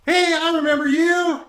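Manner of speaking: high, loud hailing cry; big-voiced character greeting from across the room; excited shout. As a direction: shout out in boisterous recognition. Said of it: "He shouts at you".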